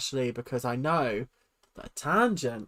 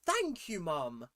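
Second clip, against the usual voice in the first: high-pitched mock gratitude; mock a kid's heartfelt thanks, high and drawn out; imagined grateful kid; 11 semitones higher, 6 dB quieter, much slower than usual. Commentator voicing the kid thanking Mum, mock-grateful. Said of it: "That kid's probably thinking".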